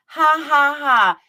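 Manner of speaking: loud put-on "ha ha ha"; mock laugh. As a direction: parody her laughing, sneering. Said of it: "she just can't stop laughing".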